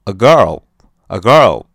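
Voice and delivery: put-on slow, careful a girl; slow model English. Shown as a demonstration. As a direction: say it slowly for the class. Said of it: "我说".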